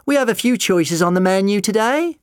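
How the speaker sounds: high, loud shout. A narrator's reading. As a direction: shout it through the barricade. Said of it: "Sally shouted".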